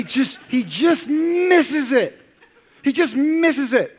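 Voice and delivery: high, loud, slow laughing lament. Real, not acted. Pastor laughing about Peter missing the point. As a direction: laugh it out fondly. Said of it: "laughing at Peter".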